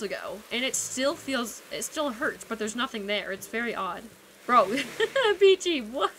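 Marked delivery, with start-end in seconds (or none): 4.4-6.1 surprised outburst. Real, not acted. Sees friend's odd action.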